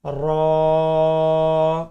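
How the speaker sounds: रॉ pronounced heavy and round. Shown as a demonstration. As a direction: give रॉ a thick, full-mouthed sound. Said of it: "रॉ को भी मोटी आवाज़ में पढ़ें".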